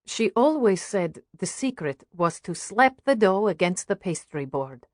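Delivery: put-on mother with a light Russian accent. Mother recalls baking as a girl, lightly Russian-accented. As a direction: reminisce with a touch of Russian accent. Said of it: "Is that a Russian accent".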